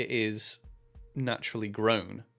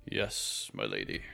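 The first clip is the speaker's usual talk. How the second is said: whispered, very low and soft; hushed deep tree creature; 8 dB quieter than usual. Acted. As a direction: breathe it out like ancient wood. Tree person speaks, quiet.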